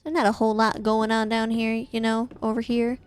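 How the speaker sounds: a hint of a countryside southern accent. Streamer telling chat about living in the countryside, light southern accent. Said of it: "I randomly developed a southern accent".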